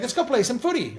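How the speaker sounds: mock brute voice. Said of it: "and he's like".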